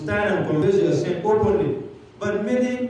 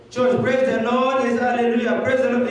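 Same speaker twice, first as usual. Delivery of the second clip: higher, rousing pulpit call; mock preacher greeting; 5 semitones higher than usual. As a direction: hype up the church.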